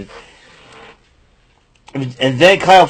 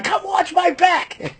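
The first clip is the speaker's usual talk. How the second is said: silly imitation; 4 dB quieter, slower than usual. Imitating a wrestler.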